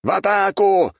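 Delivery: high loud charge command; the warrior calls the attack; shouting. A narrator's reading. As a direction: yell it as you rush downhill. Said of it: "прокричал воин богини".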